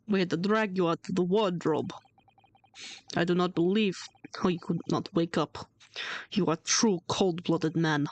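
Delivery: a hint of a Russian accent, partly whispered; lightly put-on Russian accent, menacing. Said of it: "I'm trying my best to do a Russian accent".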